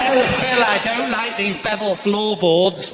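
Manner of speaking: slow, fussy put-on voice; lightly voiced prissy presenter, slowed right down; mock fussy presenter. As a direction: whine it like a picky house hunter. Mocking the house-show presenter's complaint.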